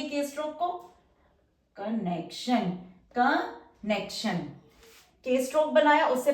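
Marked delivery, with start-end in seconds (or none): 1.8-4.4 कनेक्शन stretched slow; drawn-out word. Shown as a demonstration. Teacher stretching कनेक्शन slowly while writing. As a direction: draw out कनेक्शन as you write.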